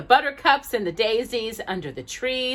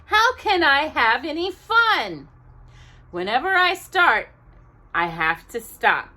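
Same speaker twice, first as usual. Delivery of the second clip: higher, complaining little engine; little engine sulking to himself; frustrated whining; 3 semitones higher than usual. Acted. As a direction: whine about never getting to play. Tootle complains about red flags.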